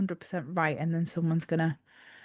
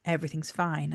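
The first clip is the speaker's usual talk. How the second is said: repeated stim; 3 semitones lower, 4 dB quieter than usual. Shown as a demonstration. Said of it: "And I just repeat".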